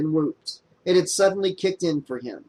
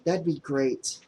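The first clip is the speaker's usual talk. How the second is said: choked up; 5 dB quieter than usual. Acted. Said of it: "she sounded choked up".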